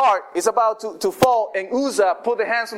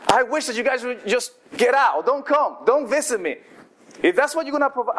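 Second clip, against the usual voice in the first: mildly exasperated, pitch climbing; acting out weary annoyance at friends; fed up; 3 semitones higher than usual. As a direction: send them away, fed up but not shouting. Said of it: "finally, Job is fed up".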